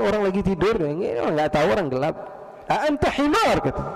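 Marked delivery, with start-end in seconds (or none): 2.7-3.6 high, accusing outburst; retold shouting. Sleeper insulting the unseen caliph in Arabic, shouting. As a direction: hurl the insult in mock anger. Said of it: "Teriak dia".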